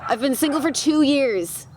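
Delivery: high, laughing mock plea for help; mock desperate single. Hammed-up high desperate plea from a pretend lonely single woman. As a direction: parody of a lonely singleton begging her friends. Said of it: "over here being like".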